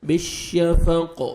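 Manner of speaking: "بالشفق" slow, with a full, held sh; clear sheen. Shown as a demonstration. Teacher shows a well-made sheen, "بالشفق" with a long sh. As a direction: dwell on the sh of "بالشفق". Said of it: "شین کو اچھی طرح پڑھنا ہے".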